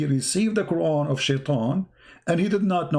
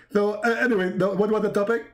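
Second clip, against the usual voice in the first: lightly mimicked forgetful preacher, higher; mock-distracted, hesitant question; Zakir Naik as Jibreel; 4 semitones higher, much faster than usual. Angel loses the topic, higher mock-forgetful preacher question. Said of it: "You look like Zakir Naik".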